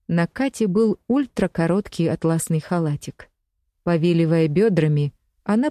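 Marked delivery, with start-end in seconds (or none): none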